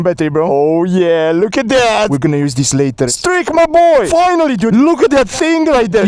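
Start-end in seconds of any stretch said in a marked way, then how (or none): 3.1-6.1 excited greeting. Real, not acted. Greeting friend's scooter, hyped.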